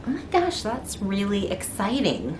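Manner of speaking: light up with a happy surprise; excited. Retold or imitated. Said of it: "and I thought".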